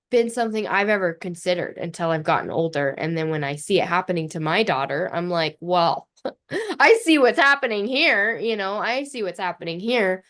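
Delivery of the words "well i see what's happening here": amused, knowing, a bit louder; knowing laugh. Retold or imitated. Mother's knowing quote about daughter.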